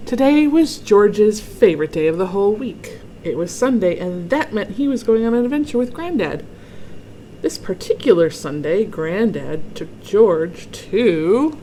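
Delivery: lively, emphatic storybook reading; story read-aloud. A narrator's reading. Reader opens George's Sunday adventure for children, lively storytelling. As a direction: read it out clearly for young listeners. Reads picture book to children.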